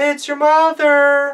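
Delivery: very high, loud, fake-sweet put-on wolf voice. Reading a story, the wolf answers the children at the door in his highest wolf voice. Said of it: "said the wolf in his highest wolf voice".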